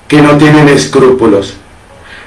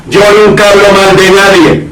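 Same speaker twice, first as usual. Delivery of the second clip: mock pious denial, pitched a bit higher, faster at the end; a lightly voiced smug churchgoer; self-righteous claim; 4 semitones higher than usual. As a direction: parody the hypocrite swearing he never gossips. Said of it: "levante la mano y diga".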